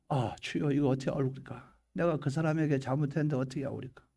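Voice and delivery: low, subdued prayer of regret; acted repentant prayer. Believer confessing to the Lord for wronging a brother, subdued repentance. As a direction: murmur a troubled confession.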